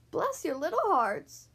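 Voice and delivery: high, loud, slow gushing cry. A narrator's reading. Grateful fox to the mouse couple, acted cry. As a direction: cry it out with drawn-out gratitude. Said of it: "he cried".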